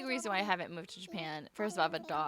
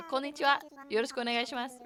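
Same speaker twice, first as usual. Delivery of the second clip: "Konnichiwa, yoroshiku onegaishimasu" in a Japanese accent, louder and higher; 4 semitones higher, 4 dB louder, much faster than usual. Shown as a demonstration. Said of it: "a gaijin accent".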